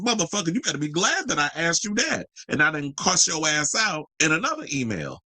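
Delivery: high-pitched indignant retort. Real, not acted. Host snapping back at the photographer's email, indignant.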